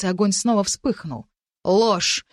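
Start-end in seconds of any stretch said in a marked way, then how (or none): 1.6-2.3 declaring. Acted. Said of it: "вещал ей в ответ маркиз".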